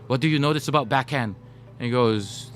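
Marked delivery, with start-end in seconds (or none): 0.0-1.4 put-on Japanese accent, questioning. Coach quizzing the interviewer about the American, imitated Japanese accent. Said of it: "I'll do my Japanese accent".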